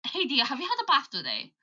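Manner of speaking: quick Birmingham lilt on "Hey, dear, have you had a bath today?"; a light Birmingham accent, fast. Retold or imitated. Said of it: "But the Birmingham accent".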